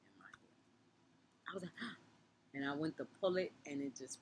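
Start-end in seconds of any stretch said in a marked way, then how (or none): 1.8-2.0 retold shocked gasp. Reenacts finding gum in hair.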